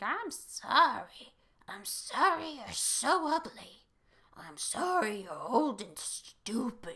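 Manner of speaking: loud evil dummy voice. Retelling the scene where Mister Wood turns to the Millers, in an evil dummy voice. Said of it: "That's my evil dummy voice".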